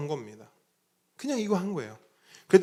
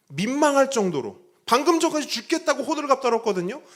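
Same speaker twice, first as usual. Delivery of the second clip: fervent preaching; 7 semitones higher, 6 dB louder than usual. Acted. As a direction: lean into each phrase like a pulpit climax. Preacher rising to full force.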